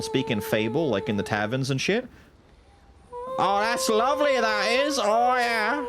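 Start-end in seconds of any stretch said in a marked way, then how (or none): 3.4-5.8 higher, hammed-up British tavern accent. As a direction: play a cheery Fable tavern regular. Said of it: "It's that kind of accent".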